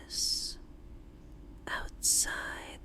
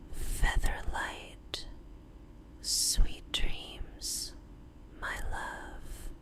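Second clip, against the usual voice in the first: tender goodnight whisper; slower than usual. Acted. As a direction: whisper it as a final lullaby. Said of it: "before whispering".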